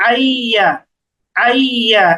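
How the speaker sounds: আইয়া with a long, held double ya; doubled tashdid. Shown as a demonstration. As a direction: hold the glide in আইয়া before releasing. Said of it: "এইরকম".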